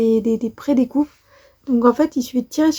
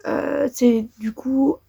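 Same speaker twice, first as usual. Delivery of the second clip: whispered; 5 dB quieter, much slower than usual. Real, not acted. Hesitant aside while explaining.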